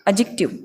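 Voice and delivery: एडजेक्टिव said carefully with a falling end; model pronunciation. Shown as a demonstration. Teacher sounds out एडजेक्टिव for students, careful. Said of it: "जब मिला के बोलेंगे".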